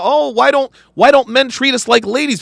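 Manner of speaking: mock the complaining women; mock whiny woman. Mocking women who complain about men, a whiny voice. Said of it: "bitching and moaning about".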